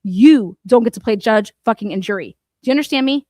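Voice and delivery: loud angry jab. Real, not acted. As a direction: hit it hard like a scolding. Angry rant at Turtle Boy.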